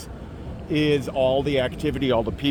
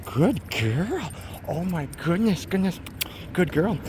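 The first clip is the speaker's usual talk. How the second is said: soft dog praise; 4 semitones higher, 5 dB quieter than usual. Shown as a demonstration. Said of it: "I'll use the praise".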